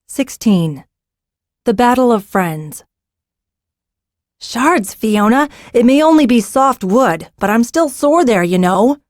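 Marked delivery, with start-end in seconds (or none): 4.4-9.0 crying out. Acted. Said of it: "Zinna cried".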